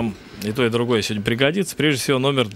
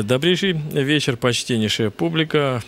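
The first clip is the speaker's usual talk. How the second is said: slow, grand ringmaster greeting; booming circus ringmaster; 3 semitones higher, slower than usual. Acted. Host greets audience grandly.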